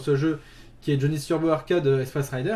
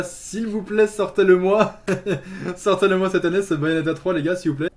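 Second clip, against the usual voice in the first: supplication. Real, not acted. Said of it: "suppliant les développeurs".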